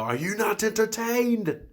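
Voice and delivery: high, slow, booming arena cry; drawn-out triumphant challenge; imitating a yell. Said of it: "and yell".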